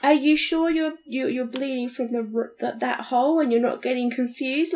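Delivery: mock-patient doctor questioning the obvious; condescending. Patient imitating doctors who doubted her, condescending. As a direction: talk down, as if to someone dumb. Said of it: "that condescending way".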